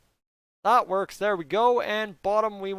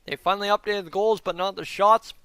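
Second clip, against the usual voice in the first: chewing while talking; 3 semitones higher, 4 dB louder than usual. Real, not acted. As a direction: mouth full of ice cream. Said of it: "Chewing in the mic is awful".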